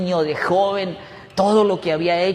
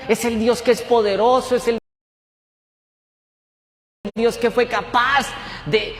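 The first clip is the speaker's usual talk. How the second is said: fervent declaration; 4 semitones higher than usual. Retold or imitated. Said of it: "Como diciéndole".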